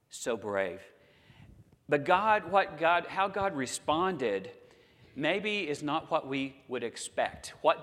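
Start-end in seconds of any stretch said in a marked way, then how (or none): none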